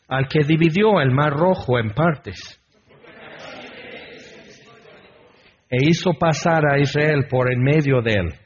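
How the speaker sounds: measured scripture recitation, even and declamatory; responsive psalm reading. Acted. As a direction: proclaim each verse steadily for a congregation to answer.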